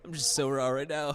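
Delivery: real laughter through tears; laughing and crying. Real, not acted. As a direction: laugh it out, still emotional. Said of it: "I'm, like, laughing and crying".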